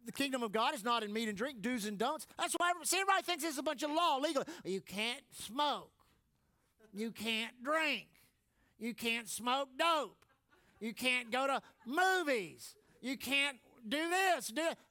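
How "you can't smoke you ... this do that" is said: mock rule-listing. Mocking legalistic rules list.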